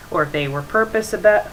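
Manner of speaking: ordinary talk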